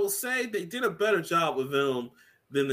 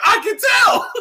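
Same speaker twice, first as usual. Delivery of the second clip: high, louder exclaim; playful loud retort; mock shout; 8 dB louder, slower than usual. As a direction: yell it as a joke.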